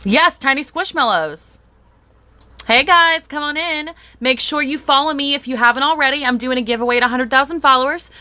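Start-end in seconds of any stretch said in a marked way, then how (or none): 2.7-3.9 excited greeting. Real, not acted. Greeting live viewers.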